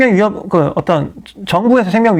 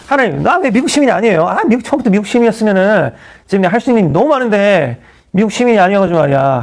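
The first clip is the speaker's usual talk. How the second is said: whiny mock complaint to God, pitch lifted at first; resentful complaint; 3 semitones higher than usual. Pastor recalling his complaint to God about citizenship, resentful. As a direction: act out grumbling at heaven. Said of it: "하나님께 원망 많이 했습니다".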